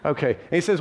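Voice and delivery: ordinary talk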